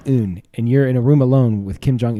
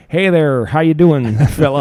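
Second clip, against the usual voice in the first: put-on Southern accent. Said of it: "going for a Southern accent".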